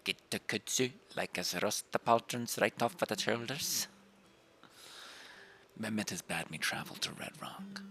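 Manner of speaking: whispered game character; whispered NPC voice. Acted. GM voicing warden NPC.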